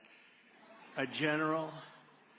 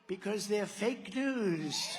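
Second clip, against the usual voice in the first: very slow, higher, louder rally shout; drawn-out shout; 5 semitones higher, 4 dB louder, much slower than usual. Real, not acted. To the rally crowd, attacking the press, drawn-out shout. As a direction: stretch it out for the crowd.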